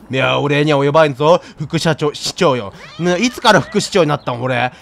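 low, lordly mayor; smug mayor voice. Acted. Streamer voices the mayor waving off thanks, smug. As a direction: brush off thanks grandly.

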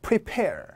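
"prepare" with a hard puffed p on PAIR; strong P. Shown as a demonstration. Teacher leading the class together, "prepare" with a forceful P. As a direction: punch the p of the stressed syllable in "prepare". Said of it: "세게 다 같이요".

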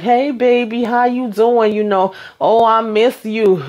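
sugary act, playing him; fake sweet. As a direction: girlfriend faking sweetness on a call from jail. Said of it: "be all hunky-dory".

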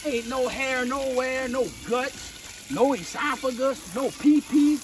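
lightly voiced butcher marveling at the clean carcass; impressed butcher. Imagined butcher praising the hunter's clean deer, mildly amazed. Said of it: "he's gonna be like".

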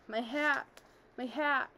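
high, anguished wail. A narrator's reading. Old lady losing her hat on the stairs, high wail. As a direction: cry out over the lost hat. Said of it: "She wailed".

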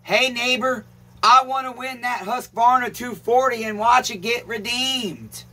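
comment to type. Shown as a demonstration. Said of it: "you have to comment down below".

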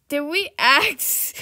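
slow sassy comeback; sassy retort. Pretend. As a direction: drag it out with attitude.

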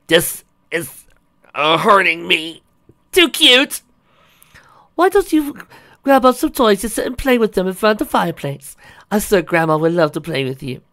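very high, loud cartoonish female voice; playful doting aunt. Aunt hugging nieces and nephew, gushing playfully. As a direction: squeal it high, then coax the little ones. Voices daughter greeting the little foals.

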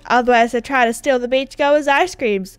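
lightly put-on chummy dude; playful boast in character; proud pet-shark owner. Character introducing pet shark Bruce, lightly hammed-up pride.

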